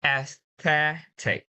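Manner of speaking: slow AESTHETIC in one piece, stressed on THE; stress before IC. Shown as a demonstration. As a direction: join up Aesthetic, weight on the middle. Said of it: "Now, put on together".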